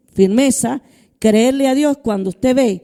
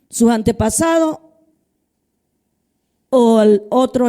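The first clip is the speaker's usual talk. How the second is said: scripture reading. Acted. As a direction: read the verse out deliberately to the church. Reads Joshua 24:15 aloud.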